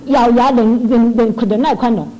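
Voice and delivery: slow, forced words through gritted teeth; slow, strained with teeth clenched. Retold or imitated. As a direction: grind it out, holding back anger. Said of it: "我就咬牙切齿的".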